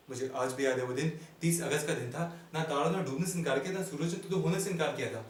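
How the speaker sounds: theatrical comic recitation with dramatic pauses; comic stage monologue. Acted. Comedian addressing ladies and gentlemen about his life, mock-grand monologue. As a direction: declaim it like a mock-grand orator.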